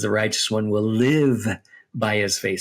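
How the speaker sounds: "live" pressed slightly harder and held; stress on live. Shown as a demonstration. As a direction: lean on the word "live". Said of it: "So it emphasized the idea of living".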